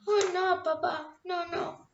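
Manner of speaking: put-on sweet little girl. Girl reassures father, happy.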